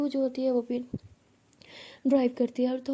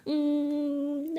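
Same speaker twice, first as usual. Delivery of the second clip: long drawn-out pouty whine; mock-crying "hmm", stretched out; much slower than usual. Bhavna sulks after being shouted at, crying whine. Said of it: "ऐसे कि बहुत रो रही थी".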